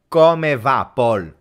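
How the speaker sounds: "Come va" with a hard K sound; "Come va" pronounced kome va; standard Italian. Shown as a demonstration. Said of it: "in Italian you say".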